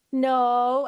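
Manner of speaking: imitated child's drawn-out no; reluctant denial. Aunt or uncle quoting a niece who won't admit crying, reluctant denial. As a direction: hold out the word as if not wanting to admit it. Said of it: "didn't want to admit that she was crying".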